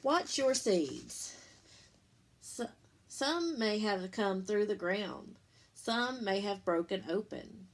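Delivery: slow, lilting picture-book read-aloud; reading to children. Acted. Teacher reading the bean book to her class, lilting storybook voice. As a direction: read it like story time for little ones.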